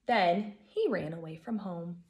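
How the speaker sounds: put-on lively storybook reading for kids; gentle read-aloud for a class; reading to children. A narrator's reading. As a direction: read it like story time for first graders. Teacher reads picture book aloud.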